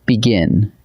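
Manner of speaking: begin, with the emphasis landing on "gin"; stress on second syllable. Shown as a demonstration. Teacher showing students where stress falls, "begin" stressed on second syllable. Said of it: "The emphasis lands on the second syllable".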